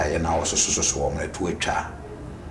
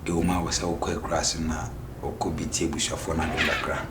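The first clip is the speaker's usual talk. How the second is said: unvoiced, hushed retelling; whispered; 4 semitones lower, 6 dB quieter than usual. Real, not acted. Man telling the family's dream story, in a whisper.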